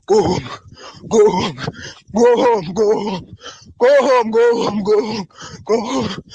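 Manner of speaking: tearful pleading. Real, not acted. Speaker begging his listeners to return home, near tears. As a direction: beg them to come home, voice near tears. Repeated desperate plea to return.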